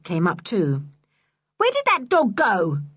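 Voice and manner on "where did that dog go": higher, mock call across the cliff; a hammed-up shout; mild shout. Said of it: "shouted Missus Stick".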